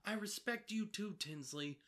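attempted impression, pitched high; Dorinda. Co-host tries the housewife's reply to Tinsley, imitated. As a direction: have a go at mimicking her, high-voiced. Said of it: "Can you try?".

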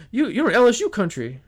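high mock Southern indignation; Southern drawl. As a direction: scold like a Southern cab driver. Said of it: "The Southern drawl was just out".

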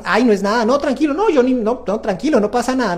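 mock a parent who waves the apology away; dismissive parent. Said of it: "no seas como". (padre que minimiza, en tono más agudo)

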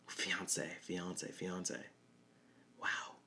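softly savoring the word fiance; quiet, savoring. Real, not acted. Trying out the new word.

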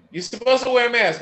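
mildly mimicking a nagging scold; mock scolding. Imitating people who tell him to wear a mask, mock scold. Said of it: "everybody yells at me".

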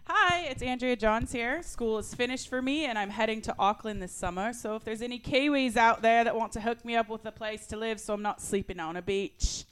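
put-on a rough stab at a Kiwi accent. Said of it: "Is that, is that a Kiwi accent?".

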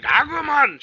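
high, loud cry of a name; acted calling out. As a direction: call out to a friend, hammed-up. Retold character calling out a name.

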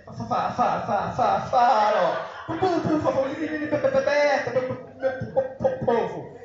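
choppy repeated syllables, hammed-up stammer; stutter imitation. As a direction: sputter the syllables before povo. Imitates a stutterer trying to speak.

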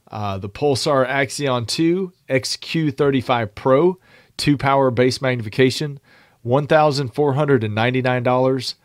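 winded from reading without a break; out of breath. Real, not acted. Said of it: "I'm almost out of breath".

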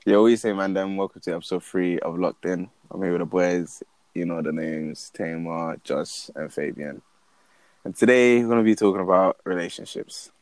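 upbeat show opener; podcast host intro. Acted. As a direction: welcome listeners like a host.

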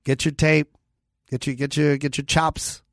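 a hint of a stern mob booker; mobster voice. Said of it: "I'm doing, like, a mobster voice right now".

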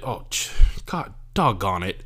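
lightly put-on voice of an in-law cousin; imitating white cousin. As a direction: do a hint of the cousin's folksy talk. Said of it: "like, he talks like this".

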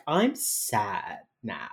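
slow, low mock mope; exaggeratedly slow, downcast delivery; sad. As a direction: drag it out, imitating someone feeling sorry for herself. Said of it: "she's just like".

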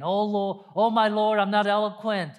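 imploring Moses; Moses pleading. Retold or imitated. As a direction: beg the Lord for release. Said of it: "Moses said to God again".

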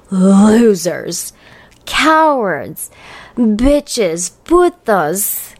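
hushed, breathy repeat of Losers, no voice; whispered insult. Real, not acted. Whispering Losers to anonymous commenters. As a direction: whisper Losers like a secret jab.

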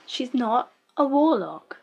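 slow, stunned "She's not a warlock", leaning on "a"; flat disbelief. Real, not acted. Repeats protest about show's plot.

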